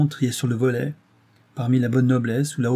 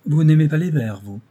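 higher, louder teasing question; railing, pointed tease; mocking; 5 semitones higher, 7 dB louder than usual. A narrator's reading. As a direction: needle someone with a raised voice. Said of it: "lui dit Rose d'un air railleur".

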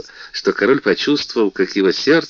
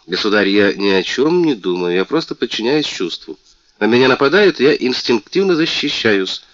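высокий, звонкий голос обиженной принцессы; жалуйся, как оскорблённая принцесса; мультяшная принцесса; 5 semitones higher, 4 dB louder than usual. Acted. Принцесса защищается. (принцесса жалуется королю, звонко и обиженно)

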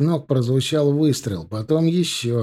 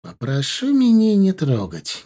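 sourly; 8 semitones higher, slower than usual. A narrator's reading. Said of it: "кисловато сказал Шниперсон".

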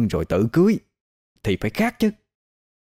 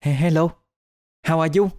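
put-on higher-pitched, hesitant English with a Vietnamese accent; halting Vietnamese-accented English; 7 semitones higher than usual. Qua greets the foreign man, halting Vietnamese-accented English.

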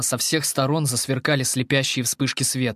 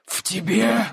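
shocked creature; 9 semitones higher, slower than usual. Acted.

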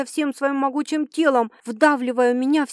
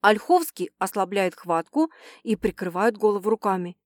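ordinary talk

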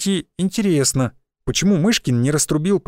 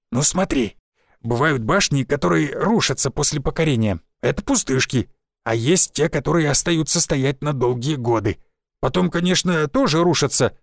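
lightly voiced old village forester; a folksy old woodsman, a touch rough.

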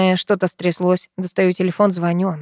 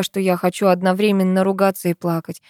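ordinary delivery, nothing marked

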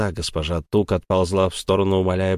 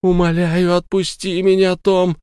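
much higher, louder lament; wailing plea; 9 semitones higher, 4 dB louder than usual. Acted. Sara keeps wailing, begging Tom to release her. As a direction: wail for mercy. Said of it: "продолжала причитать Сара".

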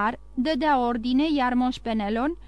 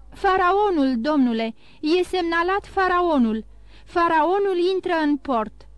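higher, louder breathless news; excited announcement; 5 semitones higher, 3 dB louder than usual. A narrator's reading. Blurt out the good news. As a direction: Emanuel insisting to Morel the ship is back, excited. Emanuel announcing the ship's return.

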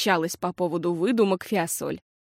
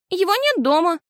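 put-on firm, high, louder girl; твёрдо; 11 semitones higher, 5 dB louder than usual. A narrator's reading. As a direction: state it flatly, no room to argue. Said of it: "твёрдо ответила Фиасоль". (твёрдо, уверенно)

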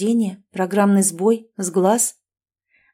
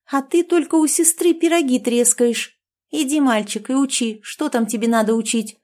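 stern, higher bossy order; 5 semitones higher than usual. Acted. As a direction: scold him like a strict elder sister. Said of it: "строгим тоном велела Женя".

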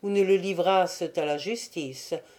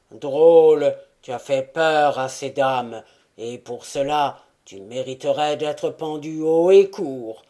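grand theatrical stage delivery; big tragic voice; 3 semitones lower, 4 dB louder than usual. Acted. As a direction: declaim like an old stage tyrant. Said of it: "de sa grosse voix tragique".

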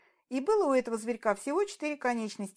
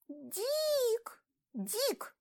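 high chirping; 13 semitones higher than usual. Acted. Girl repeats his name.

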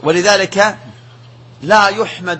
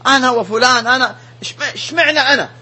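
higher, plaintive imitation of a whiner; complaining sufferer; 6 semitones higher than usual. Afflicted man asking why him, plaintive higher whine. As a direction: mimic someone grumbling at fate.

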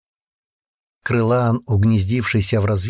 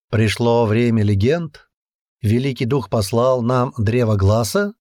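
thoughtful. Acted. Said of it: "задумчиво спросил сам себя".

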